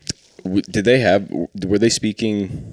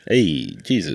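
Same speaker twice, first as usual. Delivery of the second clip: pitched-up mock Italian accent; 5 semitones higher, slower than usual. Pontius Pilate addressing Jesus, Italian accent. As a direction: call out in a comic Italian accent. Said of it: "condemning Jesus to death with an Italian accent".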